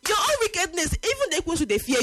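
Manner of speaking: high, fast worked-up rant; heated rant. Real, not acted. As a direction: rant about wickedness. Heated rant about wicked people.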